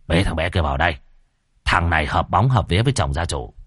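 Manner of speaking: put-on deep, grave old master; low stern sorcerer. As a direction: speak low like a solemn shaman. Tam's voice again.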